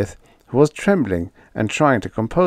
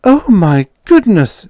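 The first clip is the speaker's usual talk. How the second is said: higher, louder, slow shocked shriek; shocked scream; 11 semitones higher, 9 dB louder than usual. A narrator's reading. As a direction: squeal in shock at the naked Martian. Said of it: "screamed Edith".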